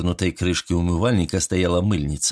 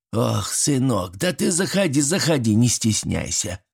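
granny's welcoming tone; 3 semitones higher than usual. Acted. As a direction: switch to honey for the guest. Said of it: "Тон Степаниды моментально изменился".

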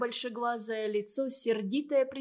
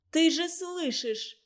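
higher, slow angry outcry; angry shout; 6 semitones higher, 3 dB louder, slower than usual. A narrator's reading. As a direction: fling it back at him, high. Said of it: "крикнула Катя".

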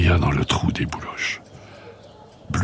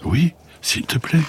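higher voice, a tiny fluff ball in trouble; worried little creature; 9 semitones higher than usual. Acted. Blu tells Rosalie she cannot get home, higher and pleading. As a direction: plead your case like a small lost creature.

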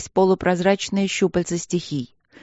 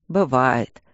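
lower, lightly amused reply; wry chuckle; 4 semitones lower than usual. A narrator's reading. Newcomer shrugs off the excuse, lightly wry and low. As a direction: say it with a slight smirk. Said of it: "усмехнулся мужчина".

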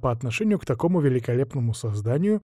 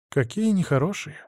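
сочувственно; 5 semitones higher than usual. Acted. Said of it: "посочувствовал я".

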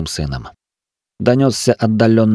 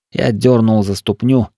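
plain reading voice

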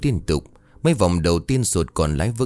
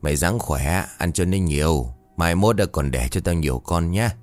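tender coaxing. Acted. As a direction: murmur kindly to the sow like a grandmother. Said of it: "ân cần bảo". (giọng bà dịu dàng, âu yếm dỗ con lợn)

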